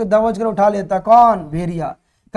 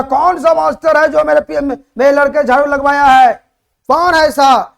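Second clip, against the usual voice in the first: angry father demanding who made his son sweep, voice a bit higher and louder; mock outrage at the teachers, pitched up; retold furious shout; 4 semitones higher, 3 dB louder than usual. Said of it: "पिताजी का आवाज पूरे school में गूंज गई".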